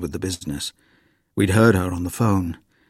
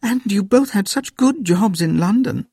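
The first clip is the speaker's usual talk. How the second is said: put-on higher, tutting old woman; Granny voice; 12 semitones higher than usual. A narrator's reading. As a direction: lament it like a disappointed granny.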